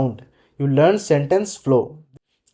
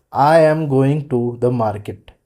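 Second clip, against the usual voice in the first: each word said separately, like a stiff learner; 3 semitones lower than usual. Shown as a demonstration. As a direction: demonstrate unnatural word-by-word speech. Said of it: "speak every word separately".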